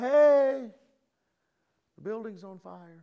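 mild, polite, courteous, well-mannered voice. Describing what you would not do at a burning building, in a courteous voice. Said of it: "in a courteous voice say".

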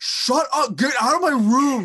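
very high, very loud, shrill screaming. Describing a movie scene where he screams at his mom, retelling a scream. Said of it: "He's screaming at her".

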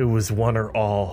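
muttering under one's breath. Leaving to head toward the cave, the character speaks muttered under breath. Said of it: "I mutter".

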